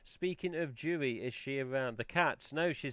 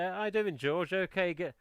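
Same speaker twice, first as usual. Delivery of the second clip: a rough stab at a Welsh lilt; attempted Welsh accent; 3 semitones higher than usual. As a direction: imitate a Welsh neighbour's greeting, loosely. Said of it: "I can't do a Welsh accent".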